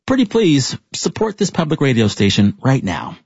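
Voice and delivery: measured scripted outro, phrase by phrase; composed public radio read; radio host sign-off. Real, not acted. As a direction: sign off the show to listeners.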